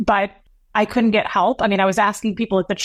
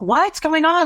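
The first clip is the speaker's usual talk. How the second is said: retold alarm; 8 semitones higher, slower than usual. Father alarmed on phone, retold.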